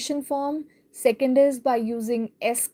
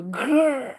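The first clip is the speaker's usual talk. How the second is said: put-on rolled "grrr" to scare a child; light storybook growl, half-hearted menace; mock monster growl. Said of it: "tries to scare her".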